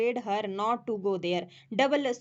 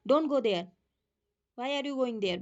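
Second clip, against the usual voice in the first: mock scolding a child; much slower than usual. Shown as a demonstration. Teacher acting a parent scolding her child. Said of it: "अपने बच्चे को बोल रहे हो".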